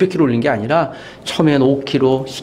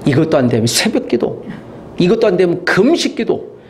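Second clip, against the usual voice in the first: building fervour; 6 semitones higher than usual. Acted. Preacher piling up kinds of prayer, mounting fervour. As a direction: escalate the list step by step.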